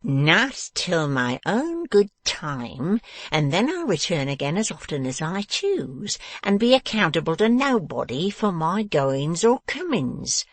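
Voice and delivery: slow, forceful, furious dwarf; bellowing tyrant throwing someone out; energetic command. A narrator's reading. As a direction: rant slowly, building to a loud drawn-out order. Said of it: "delivered this last command in such a very energetic voice".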